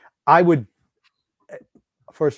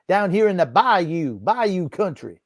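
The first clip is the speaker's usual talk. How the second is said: slow, drawn-out mock Southern accent, louder and higher; 6 semitones higher, 4 dB louder, slower than usual. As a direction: ham up a fake Southern accent to mock the coach. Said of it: "I'm surprised you didn't say".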